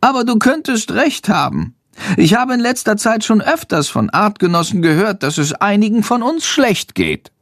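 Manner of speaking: high little bat voice, thoughtful and worried; a small bat admitting a fear. A narrator's reading. Bat confides in Jendrik about sick bats, high and worried.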